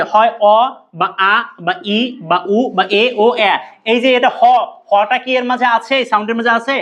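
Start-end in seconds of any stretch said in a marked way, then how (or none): 0.0-3.5 slow, each vowel অ, আ, ই, উ, এ said separately; teacher listing the vowel sounds one by one; vowel sounds listed. Shown as a demonstration. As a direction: lay out each vowel slowly for the class. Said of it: "এইরকম উচ্চারণ হবে".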